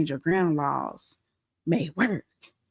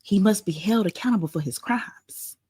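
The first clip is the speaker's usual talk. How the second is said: whispering. Real, not acted. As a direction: let it slip in a hush. Conspiratorial aside.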